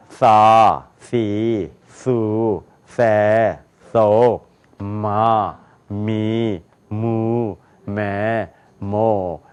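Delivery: low, drawn-out 사 as TH, 마 as hummed M; English TH and M drill. Shown as a demonstration. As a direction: chant each syllable from 사 to 모 separately, low and even. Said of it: "같이 읽어요".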